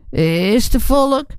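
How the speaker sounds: bang en traag gevraagd; benauwde stem. A narrator's reading. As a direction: vraag het angstig door de deur. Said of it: "een benauwde stemme". (benauwd vanachter de deur)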